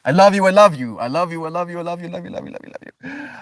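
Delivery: a doting coo that rises into a squeak and dies away; sing-song love you. Acted. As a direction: streamer cooing love to her viewers, high and fading. Gushing farewell to stream friends.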